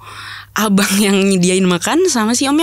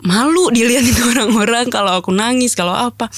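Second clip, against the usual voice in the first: half-laugh at her own shame; embarrassed laugh; 3 semitones higher than usual. Real, not acted. (tertawa malu)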